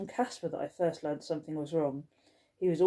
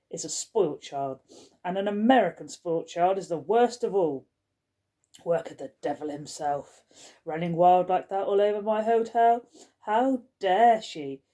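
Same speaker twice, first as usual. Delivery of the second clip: fulminating rant; 4 dB louder than usual. Acted. Skullface storming down the corridor, fulminating about spoilt children. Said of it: "fulminating as she went".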